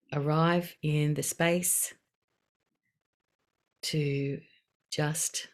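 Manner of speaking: unhurried mindfulness cue, phrase by phrase; guided meditation. Acted. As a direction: ease listeners gently into a breathing moment. Leads a short breathing pause.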